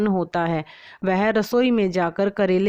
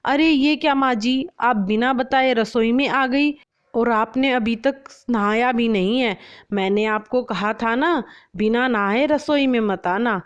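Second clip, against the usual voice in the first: angry; 3 semitones higher than usual. Acted. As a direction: scold the mother-in-law with restrained anger. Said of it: "गुस्से से कहती है". (हल्के गुस्से में डांटते हुए)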